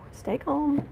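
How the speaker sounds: self-soothing. Real, not acted. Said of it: "I can't read if I'm not calm".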